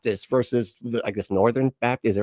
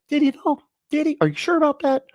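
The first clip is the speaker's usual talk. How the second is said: high, incredulous mock question; sarcastic challenge. Mocking believers, sarcastic and high. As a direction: needle them with disbelief.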